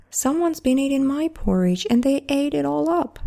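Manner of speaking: a little bear's mock wail; crying baby bear. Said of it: "cried the baby bear".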